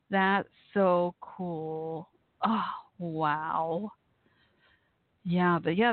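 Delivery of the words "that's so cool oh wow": slow, tearful, voice breaking; crying. Real, not acted. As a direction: get the words out through tears. Host moved by listener's family.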